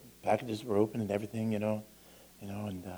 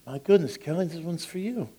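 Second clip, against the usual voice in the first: delighted reveal; 7 semitones higher than usual. Retold or imitated. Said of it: "I said".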